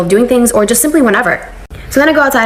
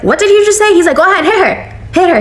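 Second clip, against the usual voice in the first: husband's angry challenge; 10 semitones higher than usual. Retold or imitated. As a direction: dare her, incensed. Husband challenges his mother angrily.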